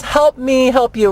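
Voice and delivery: earnest movie-line delivery; Jerry Maguire line. Retold or imitated. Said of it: "that famous scene in the movie".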